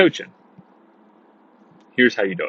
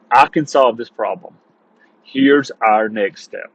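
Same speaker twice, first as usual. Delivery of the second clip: confident authority; 3 semitones lower than usual. Shown as a demonstration. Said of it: "dominant authority".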